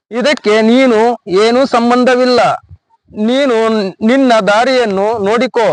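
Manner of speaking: halting, formal read-out with long pauses; reading letter aloud. Acted. Husband reads his wife's farewell notice to a woman, halting formal read-out. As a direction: read it out phrase by phrase, stiffly. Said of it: "ಓದಿ ಹೇಳ್ತೀನಿ ಕೇಳಮ್ಮ".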